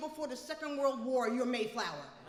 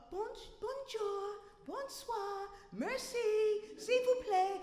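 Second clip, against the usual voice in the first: clumsy French; 7 semitones higher, slower than usual. Retold or imitated. Struggling French words.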